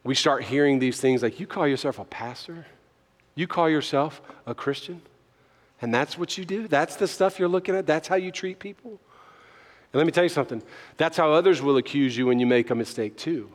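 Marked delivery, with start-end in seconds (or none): 1.4-9.0 accusing questions. Acted. Voicing the accuser's taunting questions.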